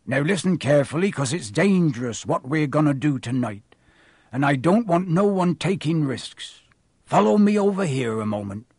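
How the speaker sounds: lightly voiced rustic giant; groundskeeper. Groundskeeper briefing pupils on danger, earnest. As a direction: warn them firmly in a country accent.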